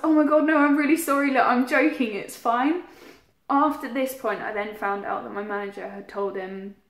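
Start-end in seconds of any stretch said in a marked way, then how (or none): 0.0-2.8 higher, louder retold panicked backtracking; panicked apology. Owning up to boyfriend that it's a joke, panicked. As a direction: blurt out an imitated panicky apology. Hurried apology after prank backfires.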